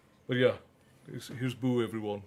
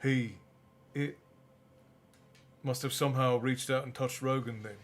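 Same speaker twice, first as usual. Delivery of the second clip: story narration. A narrator's reading. Reading the novel aloud.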